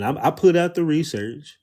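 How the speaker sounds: ordinary talk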